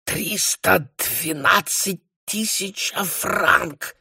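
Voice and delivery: put-on high, very slow outraged cry in a German accent. A narrator's reading. Nucingen crying out at the debt in a German accent. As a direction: wail the sum like a shocked German banker. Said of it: "вскричал барон".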